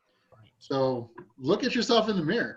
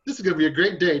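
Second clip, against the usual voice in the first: upbeat affirmation; 5 dB louder, faster than usual. Shown as a demonstration. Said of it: "just saying".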